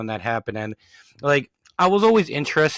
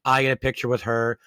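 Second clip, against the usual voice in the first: ordinary delivery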